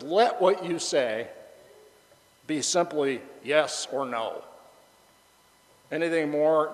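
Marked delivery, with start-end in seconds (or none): 0.0-4.4 slow solemn quote. Acted. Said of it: "Jesus says".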